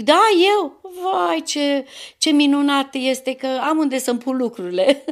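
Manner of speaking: exclamație încântată, mult mai sus și mai tare la început; redă uimirea bucuroasă din vis; încântare imitată. (încântare din vis, mai sus și mai tare)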